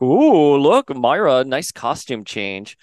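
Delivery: lightly voiced gloating villain, loud "Ooh" then trailing off; a hint of a sneering baddie; mock villain taunt. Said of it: "Doctor Stasis is like".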